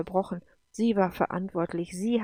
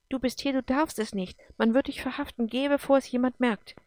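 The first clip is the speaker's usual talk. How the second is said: higher, pressing warning; agitated, raised-pitch plea; urgent warning; 5 semitones higher than usual. Acted. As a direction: urge them to leave at once. Urgent warning of imminent arrest.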